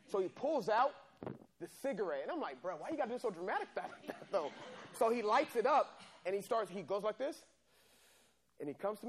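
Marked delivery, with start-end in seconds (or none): 2.6-4.5 laughing relief. Retold or imitated. Relief, it's just a cigarette.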